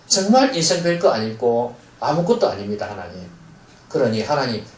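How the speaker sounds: model prayer. Shown as a demonstration. Pastor models a sinner's prayer for the congregation, earnest and humble. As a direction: pray it as a humble sinner's confession. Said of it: "이렇게 고백하면서".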